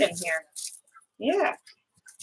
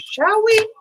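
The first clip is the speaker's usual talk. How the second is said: high playful; 13 semitones higher than usual. Real, not acted. Playful question while painting.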